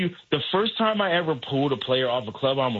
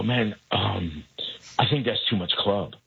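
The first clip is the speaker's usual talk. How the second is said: hesitant; 5 semitones lower than usual. Retold or imitated. Caddy hesitantly breaking news to player.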